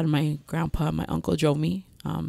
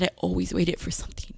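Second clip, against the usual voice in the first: whispered; 5 dB quieter than usual. Retold or imitated. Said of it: "I said".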